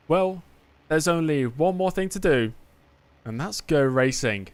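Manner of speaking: a hint of an F1 commentator, slow and building; commentator catchphrase. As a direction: deliver the big race-start line with the viewers. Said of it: "I'm going to say the line".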